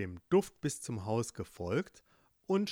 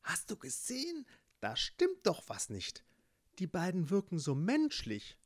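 whispering firefly; 6 semitones higher than usual. Acted. Firefly whispers to ladybug, high hushed. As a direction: whisper your suspicion to your friend.

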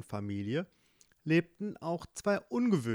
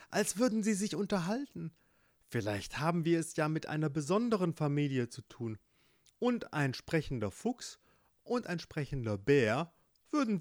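lightly voiced fox, higher and quickening; sly fox; 3 semitones higher than usual. Fox persuades the bear to knock, lightly voiced eager. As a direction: talk your friend into it.

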